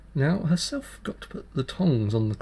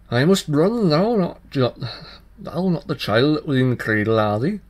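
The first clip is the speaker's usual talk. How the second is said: alarmed tailor; 3 semitones higher, 5 dB louder than usual. Acted. Tailor realises the dancer is the fairy child, loud and alarmed. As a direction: blurt it out in alarm.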